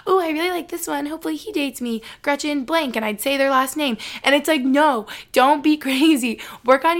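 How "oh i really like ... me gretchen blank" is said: much higher, a dreamy giddy voice; giddy crush talk. Retold or imitated. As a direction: gush over the crush in a high voice. Imitating her crush-struck past self.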